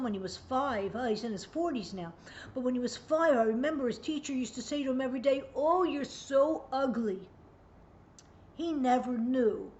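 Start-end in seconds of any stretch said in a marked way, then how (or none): 5.5-7.3 teasing sarcasm. Retold or imitated. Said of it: "but it's sarcastic".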